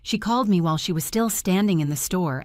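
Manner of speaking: plain reading voice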